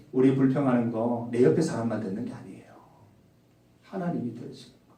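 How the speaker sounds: unvoiced whispered warning. Real, not acted. Preacher warning the congregation, whispering. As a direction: lean in and whisper it. Warning others hear complaints.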